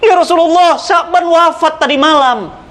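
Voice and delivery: mild mournful telling; grieving wife. Acted. Wife tells the Prophet her husband died, slow and mildly mournful.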